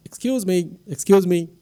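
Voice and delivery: calling down for help, half-hearted shout; mild storyteller's shout. Acted. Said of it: "He lowers the balloon further and shouts".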